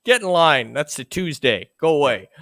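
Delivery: high incredulous opening, dropping into dismissal; mock-exasperated old grouch; crotchety. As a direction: brush off a whiner like a grouch. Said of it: "you sound like the crotchety old man".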